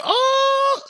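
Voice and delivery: high shouted oh of amazement; crowd gasp. Retold or imitated. Tournament crowd reacting to the match against the champion, high shouted gasp. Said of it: "everyone was like".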